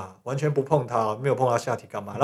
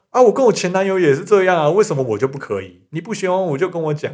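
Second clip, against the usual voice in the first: higher, louder opening on a retold protest; mock indignant girlfriend; 5 semitones higher, 4 dB louder than usual. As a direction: lightly act out an indignant girlfriend. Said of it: "女生直接很生气地说". (模仿女友生气地辩解)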